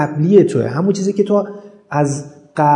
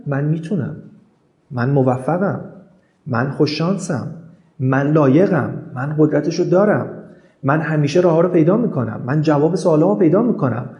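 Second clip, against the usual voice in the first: calm affirmations. Shown as a demonstration.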